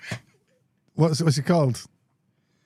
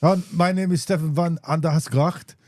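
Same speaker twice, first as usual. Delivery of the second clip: Dutch cop impression. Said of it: "that Harry Enfield one".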